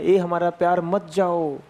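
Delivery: lightly acted low plea to a beloved; a touch of mock lovesick begging; pleading molecules. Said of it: "नीचे वाले surface के molecules कह रहे हैं". (हल्की बनावटी, धीमे सुर की प्रेम भरी मिन्नत)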